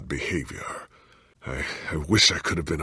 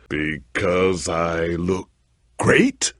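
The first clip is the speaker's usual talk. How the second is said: mock vanity; much slower than usual. Sick hero joking.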